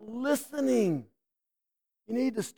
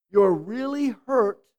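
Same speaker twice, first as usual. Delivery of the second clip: gentle demo. Shown as a demonstration. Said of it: "It would be something like this".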